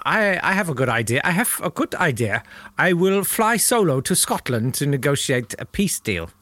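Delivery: put-on lightly accented Hess; half-hearted put-on accent; a hint of an accent. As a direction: Hess pitching a peace plan in a light accent. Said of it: "I don't know why he did it in that accent".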